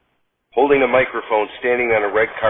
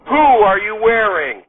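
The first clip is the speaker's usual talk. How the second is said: lightly voiced host; 7 semitones higher, 3 dB louder than usual. Host's red carpet question.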